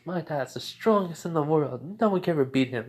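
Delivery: lightly voiced proud child; mild childlike boasting. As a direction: brag about your dad like a little boy. Young son boasts about his dad.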